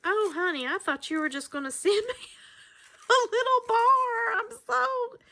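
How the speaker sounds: fighting back grateful tears; overwhelmed, voice breaking with emotion; tearful. Real, not acted. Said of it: "wipe my tears up".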